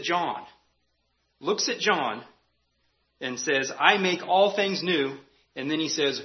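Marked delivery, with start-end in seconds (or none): 3.8-5.2 slow, louder and higher, a hint of heavenly boom; booming voice of God. Pastor voicing God to John, mild booming proclamation. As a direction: proclaim it slowly like the one on the throne. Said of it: "booming voice from heaven saying".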